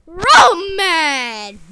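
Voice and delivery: slow mad shout. Acted. Characters chant being mad.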